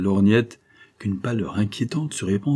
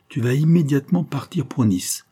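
commanding; 6 semitones higher than usual. A narrator's reading. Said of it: "ordonna la Monty".

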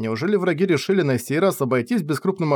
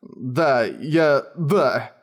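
trembling voice; much slower than usual. Acted. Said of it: "дрожащим голосом ответил он".

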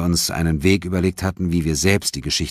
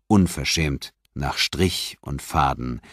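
ordinary delivery

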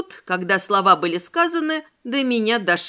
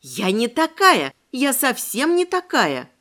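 exclaimed protest; 4 semitones higher than usual. Acted. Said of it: "воскликнула я".

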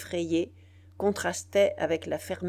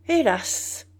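high, louder lament; plaintive sigh; 6 semitones higher, 7 dB louder than usual. A narrator's reading. The citizen lamenting to Biassou, high and plaintive. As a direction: cry it out in despair. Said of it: "dit enfin le citoyen général".

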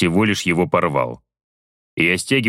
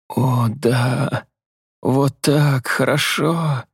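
higher, hammed-up female sighs; mock pleasure; 5 semitones higher, much slower than usual. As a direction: fake the enjoyment, playfully. Vasya faking pleasure.

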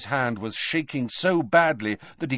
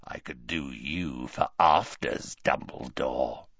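lower, softer leering rasp; 8 semitones lower, 5 dB quieter than usual. A narrator's reading. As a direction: leer it out low and rough. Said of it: "a rasping bark of a voice".

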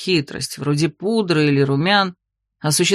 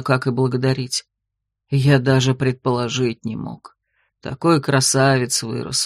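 tender werewolf; 5 semitones lower than usual. Acted. Werewolf kneeling before his queen, lower tender voice. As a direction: murmur it like a vow at her knees. Sinark confesses at her knees.

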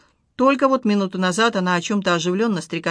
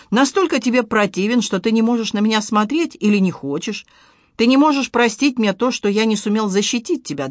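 raised, pained pleading; anguished plea; 4 semitones higher, 5 dB louder than usual. Acted. Husband begs his wife, raised and pained. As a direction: press her for an answer.

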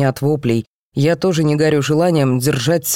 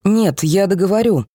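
raised voice; 5 semitones higher than usual. Acted. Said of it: "Парень тоже повысил голос".

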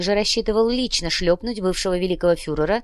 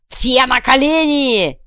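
high, loud, slow bark; barked command; 6 semitones higher, 7 dB louder, slower than usual. Acted. Kuvalda ordering the crowd to kneel. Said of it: "рявкнул Кувалда".

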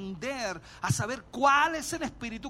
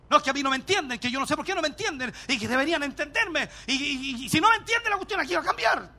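mock complaint; 3 semitones higher, 3 dB louder than usual. Voicing frustrated spouse.

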